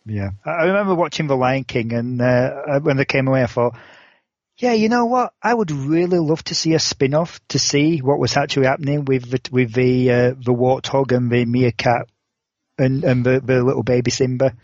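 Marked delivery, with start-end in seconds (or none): 4.6-14.5 sarcastic. Retold or imitated. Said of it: "you wouldn't happen to be sarcastic".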